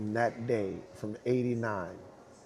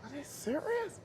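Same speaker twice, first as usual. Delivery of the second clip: retold disbelief; 7 dB quieter than usual. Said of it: "And I'm like".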